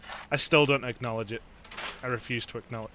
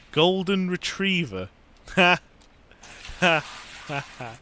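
higher, louder, drawn-out delight; amused exclamation; 5 semitones higher, 5 dB louder than usual. Real, not acted. Player spotting a dog joke in the game, delighted. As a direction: call out GOLDEN RETRIEVER slowly and high.

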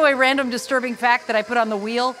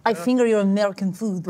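put-on understated Russian-accented joke at usual volume; mock Russian accent; 3 semitones lower than usual. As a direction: say it low-key in a Russian accent. Russian character jokes, first take.

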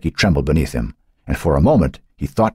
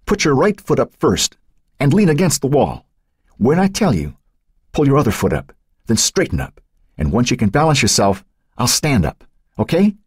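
lightly voiced boy, higher, steady instructions; lightly voiced boy giving directions in the dark; Matt's voice; 8 semitones higher than usual. A narrator's reading. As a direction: coach her up onto his shoulders, a boy trying to sound sure. Matt instructing Becky.

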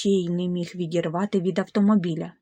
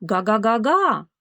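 car honking; 4 dB louder than usual. Acted. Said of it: "промовив автомобіль".

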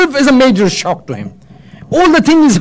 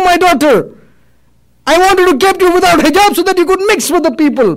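high, insistent acted outrage; indignant accusation; 3 semitones higher than usual. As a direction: throw the blame at your children. Dying man accuses his relatives.

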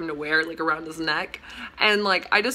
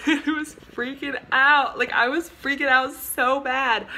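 laughing; 4 semitones higher, slower than usual. Real, not acted. Laughing about freaking out.

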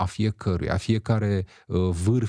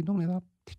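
calm reply; 8 semitones higher, 4 dB quieter than usual. Shown as a demonstration. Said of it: "Sau spuneți-i".

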